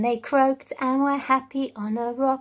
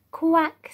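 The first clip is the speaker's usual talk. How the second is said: quacking; 4 semitones higher, 4 dB louder than usual. Shown as a demonstration. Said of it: "join in with some of the sounds of the animals".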